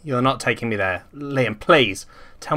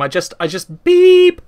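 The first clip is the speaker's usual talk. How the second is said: high, slow malfunctioning beep; 6 dB louder, slower than usual. Acted. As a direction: glitch out like a robot. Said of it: "Jack was close to malfunctioning".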